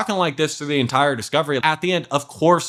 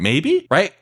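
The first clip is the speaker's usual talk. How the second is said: questioning echo; 3 semitones higher than usual. Shown as a demonstration. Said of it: "you just ask the question".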